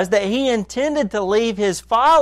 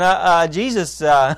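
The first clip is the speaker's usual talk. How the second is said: nervous disciple. Pretend. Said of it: "imagine myself in their shoes saying".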